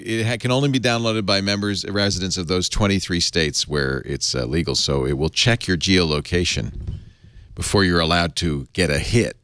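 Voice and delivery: lazy stoner voice. Acted. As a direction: mellow stoner read. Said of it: "You do a good stoner voice".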